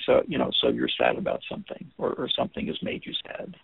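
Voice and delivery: gentled statement. Shown as a demonstration. Teacher demos the gentle probe, softly. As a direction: ease it out gently. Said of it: "by gentling it".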